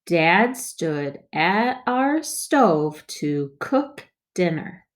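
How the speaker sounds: slow but joined up; smoother reading. Shown as a demonstration. Teacher models smoother second read for kids. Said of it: "let's read it more smoothly".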